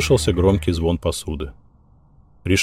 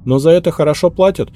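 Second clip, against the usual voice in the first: put-on high, anxious young maid's voice; the maid explains herself, high and anxious; hurried maid's confession; 10 semitones higher, 5 dB louder than usual. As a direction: rush out the confession, scared.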